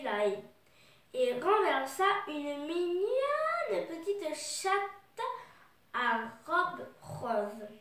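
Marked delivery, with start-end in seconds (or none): 2.3-5.2 "mignonne" stretched long and rising in pitch; slow, lingering swoop up on "mignonne"; drawn-out emphasis. A narrator's reading. Narrator presenting the little cat to children, "mignonne" drawn out.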